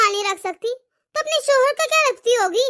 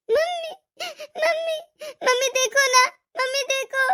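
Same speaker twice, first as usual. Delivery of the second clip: crying; 3 semitones higher, 3 dB quieter than usual. Acted. Daughter crying to her mother for help, tearful. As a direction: whimper for mom like a hurt child.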